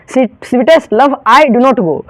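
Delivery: Sweetest Love I Do Not Go said very slowly, word by word; slow title reading. Shown as a demonstration. Teacher slowly reading the poem title to students. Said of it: "यानी कि sweetest love I do not go".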